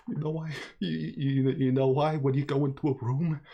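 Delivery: Christopher Walken impression. Fumbling for the voice while reading the don, a lightly done Walken. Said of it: "do the voice where it's like".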